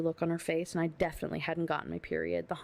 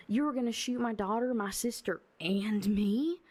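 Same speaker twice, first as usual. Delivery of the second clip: higher, incredulous accusation; indignant confrontation; 4 semitones higher than usual. Acted. Mother confronts the gunman over threatening the family, indignant. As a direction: build to an outraged question.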